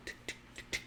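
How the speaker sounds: tiny, soft tongue clicks; imitated hoof taps. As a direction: tick lightly like prancing hooves. Imitating the unicorn's prancing hooves.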